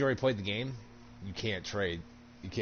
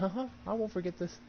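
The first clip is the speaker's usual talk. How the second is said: mock threat; 5 semitones higher, 8 dB quieter, faster than usual. Vengeful quiet threat.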